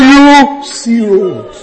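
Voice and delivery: "you see road" drawn out very slowly, each word weighted; slow, deliberate preacher's emphasis on "you see road"; slow emphatic. Shown as a demonstration. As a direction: lay it down word by word for the congregation. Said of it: "So when you are crying".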